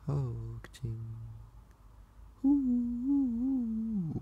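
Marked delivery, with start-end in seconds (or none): 2.4-4.2 very high, loud hooting ooh; high squeal. Real, not acted. Blurting a vocal tic mid-vlog, squealed very high. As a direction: yelp them out way up high.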